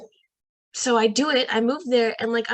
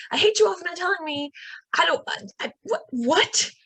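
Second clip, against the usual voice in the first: mock outrage; 8 semitones higher than usual. Retold outburst continues.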